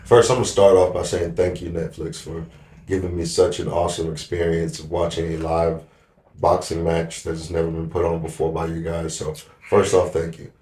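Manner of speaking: dry, mock-grateful thanks; sarcastic. Real, not acted. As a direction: thank them without meaning it. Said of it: "a hint of, uh, sarcasm?".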